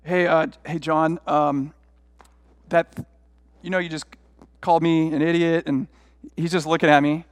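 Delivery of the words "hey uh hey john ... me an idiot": halting, hesitant opener with pauses; tentative and full of false starts; awkward confrontation. Retold or imitated. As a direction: stumble into the complaint, unsure of yourself. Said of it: "one of the most awkward".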